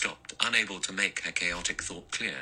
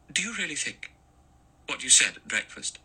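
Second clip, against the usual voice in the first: anxious question; 7 semitones higher than usual. A narrator's reading. Vera asks anxiously.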